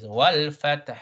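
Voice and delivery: "Wal fath" with both end consonants sounded; carefully pronounced "Wal fath"; clear double sukun. Shown as a demonstration. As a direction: articulate the final T and H of "fath".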